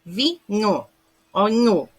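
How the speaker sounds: vinho split into "vi, nho", then nho alone; digraph as one sound. Shown as a demonstration. Teacher contrasting digraph with cluster, isolating the single sound. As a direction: let the nh in vinho come out as one palatal sound. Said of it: "Já saiu um som único".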